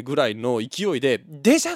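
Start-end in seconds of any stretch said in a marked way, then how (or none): 1.3-1.7 put-on child's excited call. Toddler calls out excitedly.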